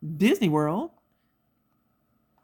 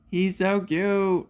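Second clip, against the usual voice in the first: cooing; 2 semitones higher, much slower than usual. Real, not acted. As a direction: melt over the puppy. Cooing over puppy.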